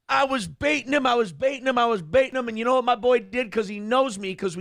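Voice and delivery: slipping into a Southern accent; Southern-tinged accent. Real, not acted. Streamer on how he baited Paul, Southern-tinged accent. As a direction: let a Southern lilt creep in. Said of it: "black Southern accent here".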